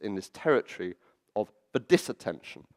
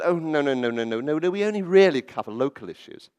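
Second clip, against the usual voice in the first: lightly voiced, louder brisk refusal; newspaper editor quoted; 3 semitones higher, 5 dB louder than usual. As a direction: wave it away with a run of quick denials. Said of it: "she didn't speak quite like that".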